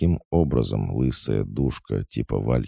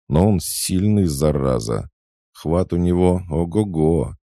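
high-pitched, slightly raised complaint; distressed protest; 7 semitones higher, 4 dB louder than usual. A narrator's reading. Pinned girl explains why she cannot get free, flustered. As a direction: complain excitedly while struggling.

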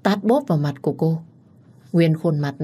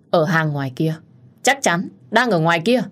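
shouting to the searchers, rising; calling out. Acted. Searcher outside calling to others, shouting. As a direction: call where he is.

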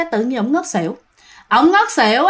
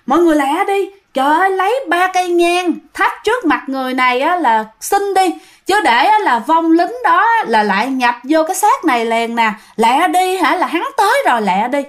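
higher, urgent retold plea from a child spirit; urgent cry; 4 semitones higher than usual. Girl spirit begging people to light incense fast, urgent cry. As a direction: hurry everyone along in a raised pitch, lightly acted. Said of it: "mới la lên".

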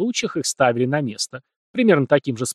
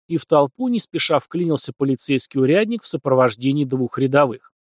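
plain reading voice

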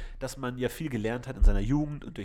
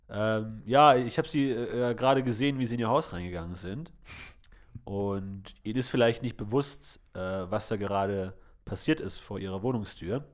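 put-on older man deep voice; 3 semitones lower than usual. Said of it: "Ein älterer Mann mit tiefer Stimme".

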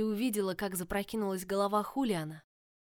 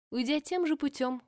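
plain reading voice

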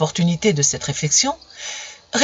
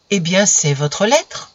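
unruffled reply; slower than usual. Acted. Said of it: "répliqua sans se démonter".

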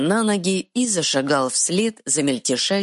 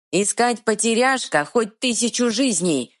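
troll bark; 8 semitones higher than usual. Acted. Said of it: "рявкнул тролль".

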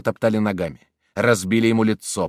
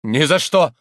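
higher, louder frightened cry; horrified refusal; 5 semitones higher, 5 dB louder than usual. A narrator's reading. Priest refusing the poison in horror, frightened cry. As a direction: recoil in horror. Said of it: "с ужасом возразил аббат".

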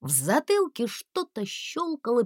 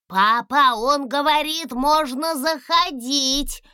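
excited calling; 7 semitones higher, 4 dB louder, slower than usual. A narrator's reading. Дракончик радостно зовёт папу.

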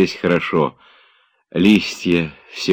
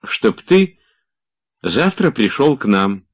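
much higher playful voice; spring the trivial answer on him; teasing anticlimax; 7 semitones higher, 3 dB louder, slower than usual. A narrator's reading. Olga teasing frightened Oblomov with a trivial answer.

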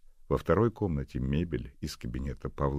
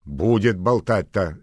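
slow, loud, stern rebuke; angrily; 6 semitones higher, 11 dB louder, slower than usual. Acted. Nanny Agasha telling the neighbour to stop chattering, angry. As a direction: cut her off sharply. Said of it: "сердито сказала подошедшая Агаша".

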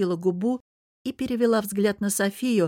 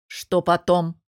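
icy tone; 5 dB louder, slower than usual. Acted. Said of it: "перебил её ледяным тоном".

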